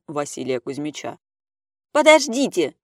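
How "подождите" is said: high, loud frightened cry; frightened shout. A narrator's reading. Vasily Kuzmich shouting in fright as he is attacked. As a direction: yell out in fright to stop him. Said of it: "закричал перепуганный Василий Кузьмич".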